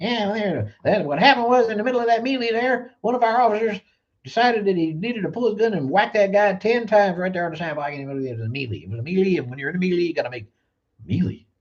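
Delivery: very high, sneering put-on voice, "melee" oddly mangled. Making fun of a man who mispronounces a word, in a mocking impression of a guy. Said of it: "how can you trust a guy who pronounces the word melee melee? Did you hear him? He's doing his thing. He's like".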